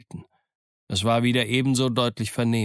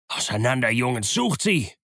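mildly raised leader's call; shouted order; 2 semitones higher than usual. A narrator's reading. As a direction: send the gang off searching. Blind leader orders gang to scatter.

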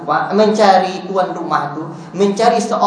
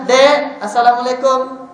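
a raised, sing-song Assalamualaikum; artful greeting; 6 semitones higher, slower than usual. Shown as a demonstration. Preacher showing a fancy greeting to a young one, sing-song. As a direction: lilt the greeting like a performance. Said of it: "Pengen seni juga".

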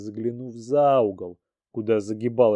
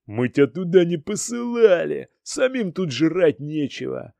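злой выкрик; 6 semitones higher than usual. Acted. Толпа кричит на инвалида.

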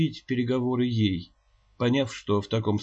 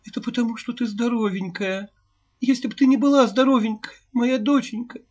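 much higher, louder, near-sobbing wail; anguished lament; 11 semitones higher, 7 dB louder than usual. A narrator's reading. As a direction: cry out in grief to the child. Mother losing her daughter. (причитает в отчаянии, навзрыд)

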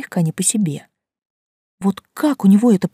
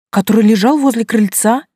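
alarmed; 4 semitones higher, 6 dB louder than usual. Acted. Urgent question about the missing bag.

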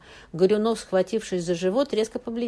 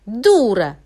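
very loud angry snap; snapped insult; 4 semitones higher, 12 dB louder than usual. A narrator's reading. Friend snaps a loud insult at the widow before leaving. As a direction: spit the insult out. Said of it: "огрызнулась Бузинова".

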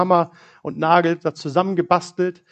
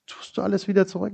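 softly restrained retold question; trying to stay calm; 3 semitones higher, 6 dB quieter, faster than usual. Father to his daughter about the toolbox, trying to stay calm. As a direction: keep it quiet and fairly controlled. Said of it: "ich versuchte in dem Moment ruhig zu bleiben".

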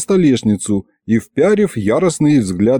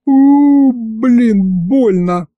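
pained yelp; 12 semitones higher, 4 dB louder, much slower than usual. A narrator's reading. Hurt hand on table.

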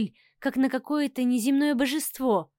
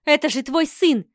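loud, stunned disbelief; appalled, push back at him; wife stunned by her husband's cruelty; shocked reproach; 5 dB louder than usual. Acted. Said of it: "ответила я поражённо".

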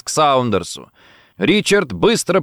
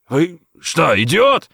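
sudden angry outburst, rising high and loud; 6 semitones higher, 4 dB louder, slower than usual. A narrator's reading. Colonel wakes at gunpoint, angry outburst. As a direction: snap it out in fury, climbing at the end. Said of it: "гневно спросил он".

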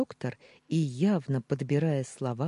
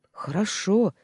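higher, meek bleat; 7 semitones higher, 6 dB louder than usual. A narrator's reading. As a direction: bleat it out meekly. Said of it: "проблеял охранник".

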